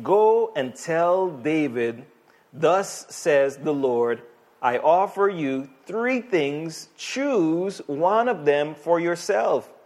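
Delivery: slow, weighty voice of the Lord; slow proclaiming prophet voice. Acted. The Lord speaking through prophet Gad, slow and weighty. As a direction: declare it slowly like a prophet.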